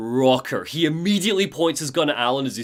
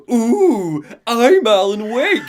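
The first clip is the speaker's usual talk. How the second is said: Alan Wake; 5 semitones higher, 5 dB louder, much slower than usual. Retold or imitated. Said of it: "holds up the Alan Wake cutout".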